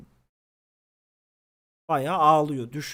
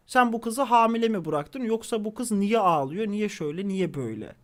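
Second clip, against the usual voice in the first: neighbor scolding; 3 semitones higher, 3 dB louder than usual. Retold or imitated. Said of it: "Orada da bana patlamış".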